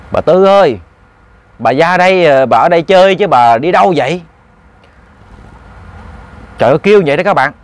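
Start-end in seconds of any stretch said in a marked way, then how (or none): 0.1-4.2 lightly voiced ghost calling out; ghost calling clearly. Ghost calling Bà Tư over to play, clear call. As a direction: call her over, drawing out the name. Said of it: "kêu rõ ràng vậy luôn".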